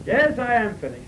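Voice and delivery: insisting on quitting; stubborn reply. Retold or imitated. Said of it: "he kept saying that".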